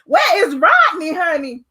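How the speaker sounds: high, sassy tea-sipping voice; mock gossip. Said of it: "I was like".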